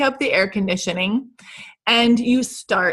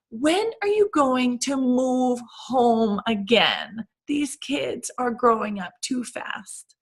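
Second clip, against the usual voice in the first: guilt-trip aunt; 3 dB quieter, slower than usual. Retold or imitated. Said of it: "she turns to you and says".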